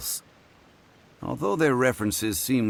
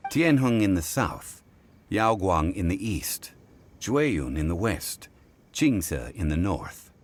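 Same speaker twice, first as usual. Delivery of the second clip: slower, deliberate recital of the verse, last lines drawn out; reciting the saying slowly. Shown as a demonstration. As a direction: spell out the riddle as a clue, unhurried. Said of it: "I've heard this saying before".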